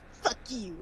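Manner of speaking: lightly imitated whine; mock his whiny tone; mildly whiny mimicked retort. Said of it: "in that really whiny tone that he does".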